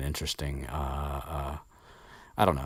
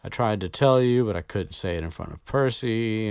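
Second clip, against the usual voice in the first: upset Ginny; 5 semitones higher, 4 dB louder than usual. Retold or imitated. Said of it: "Ginny just starts crying".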